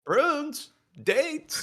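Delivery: high squeaky laughing questions; nervous laugh. Real, not acted. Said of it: "that's a nervous laugh".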